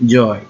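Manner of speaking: জয় said with a firm push; stress on জয়. Shown as a demonstration. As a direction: lean on the syllable জয়. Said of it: "এটা কিন্তু আমার stress word". (জয়-এ জোর দিয়ে)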